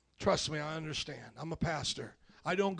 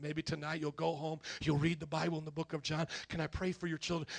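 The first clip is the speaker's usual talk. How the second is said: gentle appeal; 4 semitones lower, 6 dB quieter than usual. Acted. Acted gentle appeal to a stranger.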